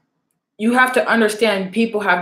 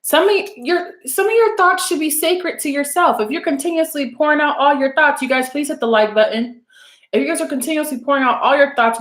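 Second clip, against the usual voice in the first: impassioned preaching; 5 semitones higher than usual. Real, not acted. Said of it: "This is important".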